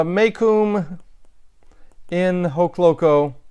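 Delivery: whispered to himself. Real, not acted. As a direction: breathe the word, testing it. Tries Latin phrase under breath.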